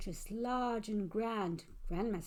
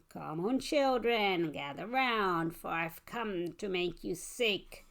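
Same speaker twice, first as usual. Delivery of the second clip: a hint of a creepy creature calling the children in; sly monster voice; 2 semitones lower than usual. Monster luring children in, a touch sly and slow.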